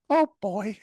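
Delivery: put-on high, deflated "oh boy"; a beaten roommate at the back, squeaky dismay; roommate's dismay. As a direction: squeak it out like a defeated cartoon fan. Roommate slouching, voiced dismay.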